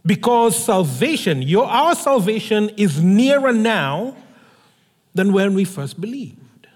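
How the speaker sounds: measured, solemn Bible reading that fades at the end; scripture reading. Acted. Reads the Bible passage aloud.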